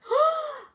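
high, loud surprised gasp; sharp gasp. Real, not acted. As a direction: gasp as if shocked. Reader reacts to snoring bear.

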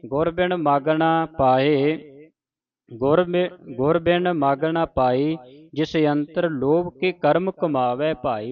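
slow, measured recitation with drawn-out vowels; scripture recitation. Shown as a demonstration. Teacher reciting a shabad for the congregation, slow measured recitation. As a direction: recite the sacred verse slowly, stretching line endings.

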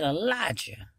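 soft, gentle calling of the name; still small voice. Acted. God softly calling Elijah's name, in a still small voice. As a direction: call his name softly, barely above a breath. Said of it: "in a still small voice".

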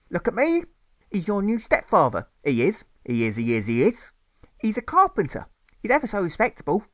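high, coaxing mother; a mother urging her boy to accept the stepfather; mother's voice. Acted. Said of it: "his mother says".

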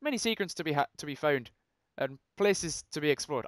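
mock-Irish reading, starting loud; attempted Irish accent. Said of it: "I can't read in an Irish accent".

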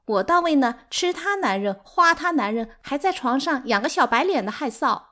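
high, aggrieved wail; 悲伤哭诉. A narrator's reading. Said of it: "六妈悲伤地哭了". (高声委屈地哭诉回击)

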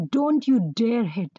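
"don't you dare hit" with weight on "dare"; firm emphasis through "don't you dare hit"; emphatic prohibition. Shown as a demonstration. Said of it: "With so much emphasis".

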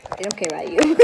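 laughing taunt. Pretend. Toy teasing the other toy, laughing. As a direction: sneer it, then crack up.

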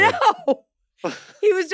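high laughing no; laughing protest. Real, not acted. Denying she brags about her doctorate, high laughing protest. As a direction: burst out laughing in denial.

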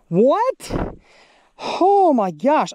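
high, loud "What?" breaking into "Oh, my gosh"; stunned disbelief. Real, not acted. Angler staring at a six-pound bass, shocked cry. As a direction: yelp as if the catch can't be real.

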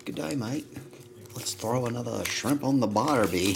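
mock Aussie catchphrase voice; Australian accent. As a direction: play a hammy Aussie, half-joking. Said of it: "That's a lovely accent you have".

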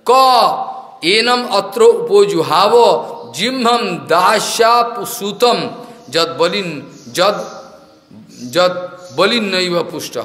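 slow, drawn-out scriptural quotation; measured recital of scripture; Sanskrit verse recitation. Real, not acted. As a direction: recite it syllable by syllable, slowly.

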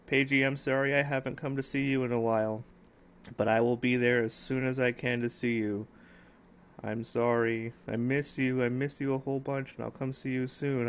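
a touch of emotion, gently apologetic; emotional apology. Real, not acted. Uncle promising Paige he'll visit soon, gently emotional. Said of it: "I'm sorry for getting all emotional there".

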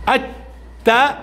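very slow, drawn-out syllable الت; teacher sounding out الت slowly. Shown as a demonstration. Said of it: "ذا، لأن عليها فتحة".

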